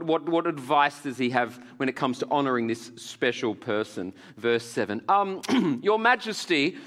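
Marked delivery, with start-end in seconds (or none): 5.8-6.8 lightly voiced English courtier, higher pitch; slightly English accent. Haman advising the king, in a slightly English accent. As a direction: address royalty with a hint of an English accent. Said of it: "he's a little bit English now".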